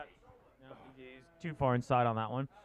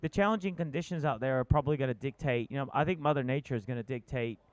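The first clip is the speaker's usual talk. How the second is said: play-by-play; 4 dB louder than usual. Acted. Live surf contest commentary.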